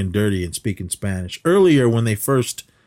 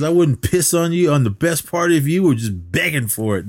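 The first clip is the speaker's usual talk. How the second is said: mock angry caller; 7 semitones higher than usual. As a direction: rant like the obscene caller losing it. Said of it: "he seemed to get super angry".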